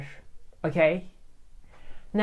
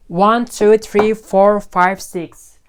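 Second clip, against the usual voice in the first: loud counting; 3 semitones higher, 7 dB louder, much slower than usual. Real, not acted. Counting books aloud.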